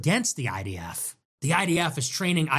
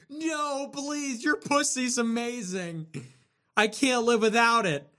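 mock pleading; 8 semitones higher, slower than usual. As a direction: whimper it like a desperate boyfriend. Parodying a pleading partner.

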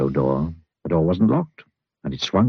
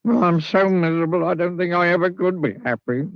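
miserable; 10 semitones higher than usual. A narrator's reading. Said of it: "he added miserably".

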